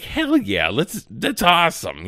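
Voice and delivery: high-pitched, mock-thrilled gamer reaction; hyped-up "hell yeah" voice; excited fan. Voicing an excited fan's reaction.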